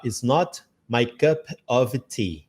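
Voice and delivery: "It's not my cup of tea" slow, every word separate; slow careful demo. Shown as a demonstration. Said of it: "A gente pode falar". ("It's not my cup of tea" devagar, palavra por palavra)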